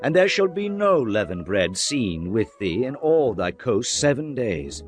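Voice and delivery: plain reading voice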